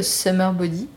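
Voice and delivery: summer body with French vowels; French-accented English; bad English accent. Real, not acted. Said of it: "mon accent anglais est nul".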